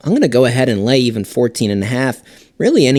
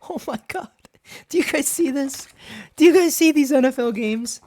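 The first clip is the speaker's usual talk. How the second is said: high, shocked disbelief; 14 semitones higher than usual. Real, not acted. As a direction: react in disbelief to the games. Shocked at NFL slate.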